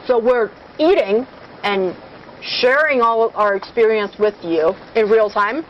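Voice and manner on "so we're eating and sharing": talking with food in mouth; mouth full. Real, not acted. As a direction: speak through a mouthful. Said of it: "Let me swallow this down".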